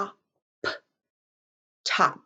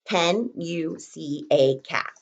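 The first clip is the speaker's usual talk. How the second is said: slow dictation; 4 semitones lower, 3 dB quieter, slower than usual. Shown as a demonstration. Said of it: "we were writing the sentence".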